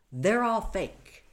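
high, loud and slow, each word hammered; retold angry yell. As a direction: spell it out to him in outrage. Retold argument with her attacker.

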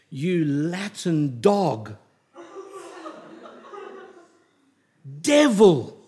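retold angry insult. Fanatic on the train cursing the teacher, mock shout. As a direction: spit out the names, then yell devil. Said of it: "he said to me".

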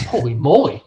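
laughing. Retold or imitated. Amazed at money in account.

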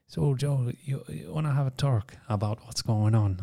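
put-on half-hearted take on an Irish priest's accent; attempted Irish accent. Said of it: "I can't do the Irish accent".

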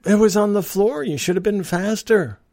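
a commuter getting even with the rude attendant; smug payback. Retold or imitated. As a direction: hand her own words back to her with relish. Throws her words back.

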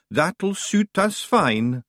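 high, slow, small Scottish rogue; a cheeky little Feegle drawling. A narrator's reading. Feegle voice in the story.

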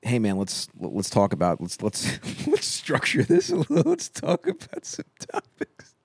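high-pitched mock of his cohost; squeaky teasing impression of a friend; mocking imitation. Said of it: "you're like".

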